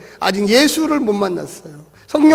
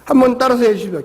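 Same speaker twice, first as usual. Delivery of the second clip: ordinary talk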